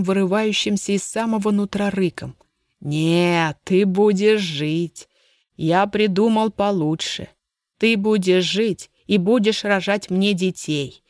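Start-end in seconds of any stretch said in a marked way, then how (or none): 2.8-11.0 slow, cold and cruel; slow menacing threat. Acted. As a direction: lean into every word as a threat.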